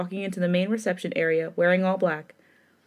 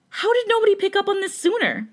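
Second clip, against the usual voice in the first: stunned; 12 semitones higher, 4 dB louder than usual. Acted. Heroine's stunned outburst.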